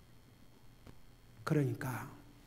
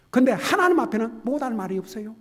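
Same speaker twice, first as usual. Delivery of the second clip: loud exhortation; 6 semitones higher, 7 dB louder than usual. Acted. Sermon line repeated quietly later.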